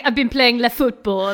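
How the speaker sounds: put-on French accent. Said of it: "speaking English with a classic sort of French accent".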